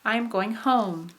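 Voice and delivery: slowly, stressing "home" with a fall; rise-fall on the final "home"; drawn-out example, main stress on "home"; high tone on HOME. Shown as a demonstration. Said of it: "hopefully you marked home".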